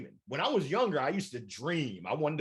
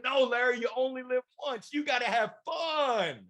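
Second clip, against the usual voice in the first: millennials advising; 9 semitones higher than usual. Retold or imitated. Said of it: "They said".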